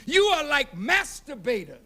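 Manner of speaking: shouted rebuke with rising anger; preacher scolding the nation for its silence; fiery preaching. Acted. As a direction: demand answers from the crowd. Rebuking the audience.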